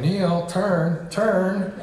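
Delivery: mild mock yell. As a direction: imitate controllers calling out to a pilot, without a full shout. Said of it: "they started yelling at him".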